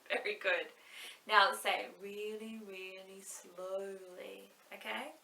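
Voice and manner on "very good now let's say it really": ordinary delivery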